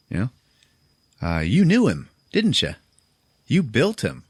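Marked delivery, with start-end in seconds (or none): 1.2-4.2 much higher, louder angry accusation; accusing. Retold or imitated. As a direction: confront her with betrayal. Mira accuses the doctor.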